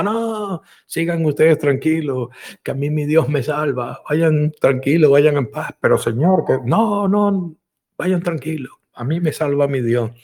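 stubborn refusal. Acted. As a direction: send the helicopter away kindly. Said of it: "Y el hombre grita".

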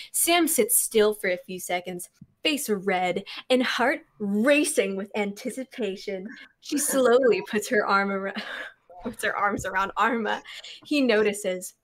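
story narration with lightly acted dialogue; reading voice. Reading fan fiction to friends, narration voice. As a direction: narrate it steadily, lift the quote. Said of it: "you have a great, um, uh, reading voice".

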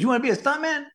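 high-pitched incredulous question; mock disbelief. Teacher's surprised reply to pupil, retold.

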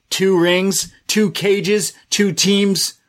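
mock hype build.

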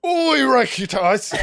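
high, laughing stab at the word; laughing attempt. Real, not acted. Host retrying Oireachtas, cracking up laughing. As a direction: laugh it out, half giving up.

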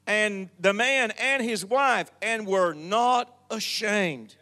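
measured preacher reading aloud from Genesis; scripture reading. Acted. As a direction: read the verses out to the congregation.

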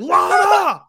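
high, loud stretched yell; mock screaming. Calling Honey Boo Boo by real name, loud mock scream. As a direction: holler the name at full voice. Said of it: "screaming Lana".

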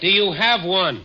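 shouting. Acted. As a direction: call it out to a hard-of-hearing old lady. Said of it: "You needn't shout".

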